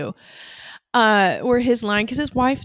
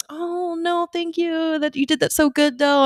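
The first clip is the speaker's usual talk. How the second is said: overly nice rejection; 7 semitones higher than usual. Retold or imitated. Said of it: "really nice and forgiving".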